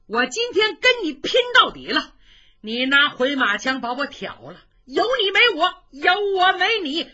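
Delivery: loud, high enraged battle cry; 怒吼拼命; furious yell. A narrator's reading. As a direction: roar it out ready to fight to the death. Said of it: "单雄信大叫一声".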